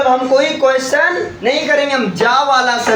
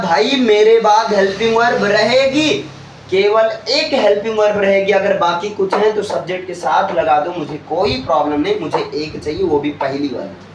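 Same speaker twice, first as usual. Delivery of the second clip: voiced question word; 3 semitones lower than usual. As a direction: speak as the question word laying down rules, sinking down. Question word personified speaking.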